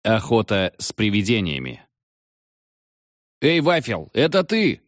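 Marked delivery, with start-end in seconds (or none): 3.4-4.8 yelling into the phone. A narrator's reading. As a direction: shout it into the receiver. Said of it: "орал в трубку Валька". (орёт в трубку)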